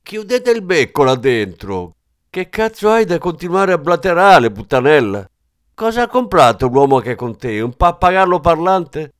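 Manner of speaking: put-on shrill high yell of an old hag; old woman yelling. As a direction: scream at them through the door like an angry old woman. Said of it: "una vecchia urlare". (vecchia che urla furiosa dietro la porta)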